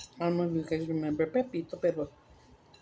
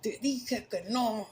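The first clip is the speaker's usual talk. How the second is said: a touch of a furious priest, higher and fast; mildly mock-scolding a boy who won't listen; imitating an exasperated priest; angry priest; 4 semitones higher than usual. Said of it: "he was so mad".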